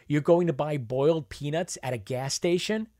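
disbelieving rise, stress on going; can't believe they'd buy peanuts there; incredulous question. Acted. Scoffing at peanut stand.

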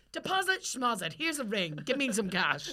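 a carefree swagger at the bank counter, laughing at the end; breezy mock demand. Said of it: "walk into a bank and be like".

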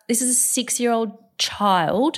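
a hint of a tearful child's voice; imitating sad child. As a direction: mimic a six-year-old missing everything. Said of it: "She's like".

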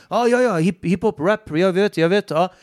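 hammed-up eagerness; excited mock reply. Instructor voicing eager reply.

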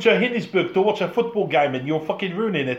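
mock South African complaint, starting high; South African accent. Fan from Johannesburg at a ruined game, mock South African accent.

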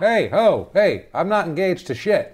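high, loud calling-out to cut in; mock indignant protest. Co-host voicing what J Lo should say, mock indignant protest. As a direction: butt in loudly, pitched well up.

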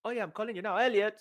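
acted phone reply.

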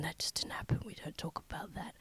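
mock-secretive, dropping away to a whisper; hushed denial. Host hushing up the lost years for listeners, hushed. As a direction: trail into a near-whisper.

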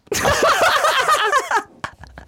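long high laugh; real fit of giggles; laughter. Real, not acted. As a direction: laugh helplessly, pitched high. Laughing after wind-up.

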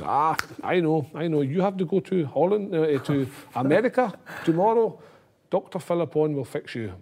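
high-pitched mock doctor announcing his answer; Muller Wolfhard. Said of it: "the famous German doctor".

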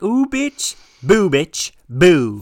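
high, loud camp sass; camp ghost. Pretend. Camp ghost on the bunk teasing Jackie, high and loud. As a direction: flounce it like a camp diva. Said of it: "be like".

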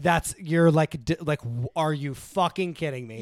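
mock-furious mom, aghast at the plan; mom outraged. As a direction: throw mom's furious disbelief back. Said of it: "And she was like".

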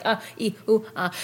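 mock inarticulate crying noises; halting mimed sob syllables; imitated hysterical crying. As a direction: stammer out broken vowels, as if crying too hard to speak. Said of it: "just crying hysterically".

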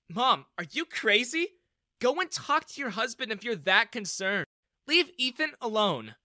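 high, loud scolding; indignant. A narrator's reading. Daughter pulling mother away from her friend, indignant. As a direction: order her off sharply.

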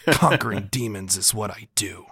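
try-hard edgy hero line, lightly voiced; edgelord voice. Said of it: "that's his try-hardy edgelord voice".

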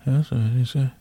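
mumbled character voice; Mumble Bear. Acted. Imitating the bear while thanking patrons, mumbling. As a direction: mumble the words indistinctly. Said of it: "I'll just do an imitation of you, Mumble Bear".

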